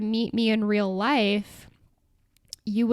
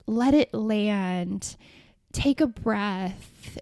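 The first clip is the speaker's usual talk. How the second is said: slow, hushed parody of AI calm; drawn-out fake-gentle coaching, mocking it; mock soothing; much slower than usual. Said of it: "phrases like".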